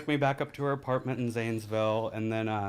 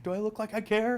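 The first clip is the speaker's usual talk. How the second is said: callous sneer; 11 semitones higher than usual. Retold or imitated. Sneering at the bleeding dealer.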